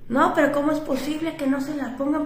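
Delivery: imitating furious driver. Taxi driver ranting at the passenger, mock fury. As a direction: play the driver beside himself. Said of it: "fuera de sí".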